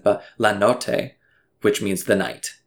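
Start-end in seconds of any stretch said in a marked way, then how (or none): 0.4-1.1 slow Italian accent on La Notte. Shown as a demonstration. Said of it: "pardon my Italian accent".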